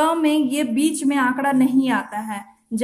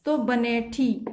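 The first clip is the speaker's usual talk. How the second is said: slow model reading; 3 semitones lower, 3 dB quieter, slower than usual. Shown as a demonstration. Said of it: "इस तरीका से बनेठी आपको पढ़ना है".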